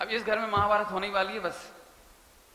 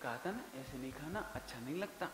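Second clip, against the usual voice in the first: second gentle reminder; 6 semitones lower, 12 dB quieter than usual. Retold or imitated. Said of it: "तो फिर अम्मा ने कहा".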